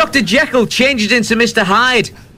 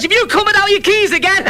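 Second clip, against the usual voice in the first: laughing; 10 semitones higher than usual. Retold or imitated. Laughing at the joke's punchline.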